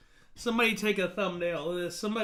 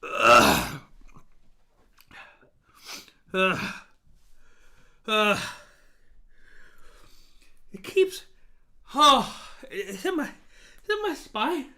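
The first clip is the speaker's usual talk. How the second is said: groaning through the burn; pained groans from chili heat; mouth burning from spicy food; slower than usual. Real, not acted. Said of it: "Whenever I eat these super hots".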